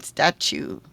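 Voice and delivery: STATUE said as stat-choo; ch sound. Shown as a demonstration. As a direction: put a clear ch in the middle of STATUE. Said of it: "has a ch sound".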